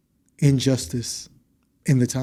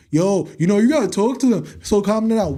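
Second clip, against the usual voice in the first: mocking others; 5 semitones higher than usual. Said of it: "That shit happened to me recently".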